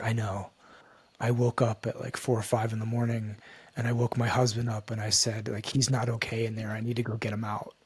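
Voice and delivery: hushed and understated; retold confiding. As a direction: quote her quietly, almost under your breath. Retold intimate confession of worry.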